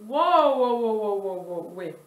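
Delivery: loud delighted wows, fading out; real amazement at the shine, then settling. Real, not acted. Swatching the highlighter on her hand, loud delighted amazement. Swatching shimmer, sees pigment.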